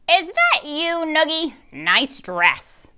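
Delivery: high, loud kindly man's voice; greeting the guest brightly; Mr Noogie voice. A narrator's reading. Mr Noogie greets the guest, high and loud.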